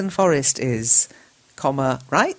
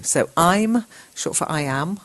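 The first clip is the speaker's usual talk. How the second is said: ordinary delivery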